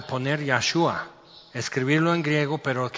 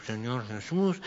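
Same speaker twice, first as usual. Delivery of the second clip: mock sinner's prayer; 3 semitones lower, 5 dB quieter than usual. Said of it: "la oración del pecador".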